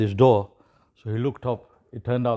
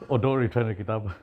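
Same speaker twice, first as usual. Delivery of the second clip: laughing. Real, not acted. Joke punchline, laughs heard.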